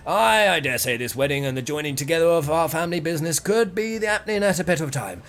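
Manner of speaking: a hint of a courteous, blustering older merchant; lightly voiced aging merchant. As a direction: play the wordy merchant making introductions, lightly. Voices merchant introducing his wife.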